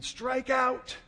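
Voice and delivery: loud, high heckling from the stands; imitated screaming. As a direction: jeer like the rival crowd. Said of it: "and they're screaming".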